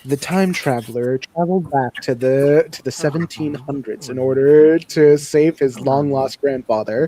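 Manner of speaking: flat robot voice; robotic text-to-speech voice; TikTok robot voice. Pretend. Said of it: "in, like, the TikTok robot voice".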